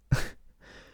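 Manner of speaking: breathy, voiceless burst of laughter; imitated laugh. Student laughing at the teacher, whispered laugh. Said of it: "I just start laughing".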